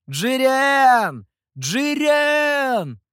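very high, very loud scream; wild scream. A narrator's reading. Someone screams wildly in the street. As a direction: scream in terror. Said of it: "раздался дикий крик".

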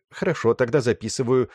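lightly voiced older woman on the phone; older receptionist on the phone.

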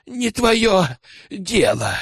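high, wheezing retort; a choked, high wheeze; rasping snarl. Acted. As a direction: spit it out short of breath. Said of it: "просипел Тихомир".

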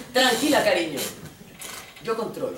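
suave would-be lover calming her; cocksure, hammed-up reassurance; mock reassurance. Father acted, reassuring the mother.

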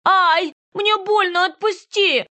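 put-on high, loud, frightened little girl; child's cry of pain. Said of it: "вскрикнула от боли".

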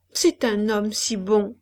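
lightly slowed, coaxing. Acted. Old woman fishing for approval, slightly slowed. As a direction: draw the words out a little. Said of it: "Elle avait ralenti la voix".

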